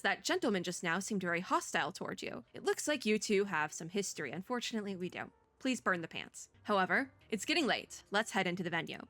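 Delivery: put-on a light touch of Lycon's accent; only hint at his accent, playfully; slight Lycon accent. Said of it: "kind of copying the accent just a little".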